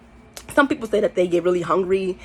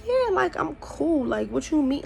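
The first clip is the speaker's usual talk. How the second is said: fake casual; 7 semitones higher, 4 dB quieter than usual. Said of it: "I'm like".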